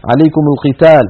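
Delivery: عليكم linked as alaykumu to القتال; short u on the meem of عليكم before القتال; meem given damma. Shown as a demonstration. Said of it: "حرك بالضم".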